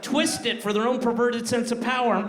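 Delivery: a parent's growing fury at the fans; rising outrage. Acted. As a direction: let the indignation swell toward the last words.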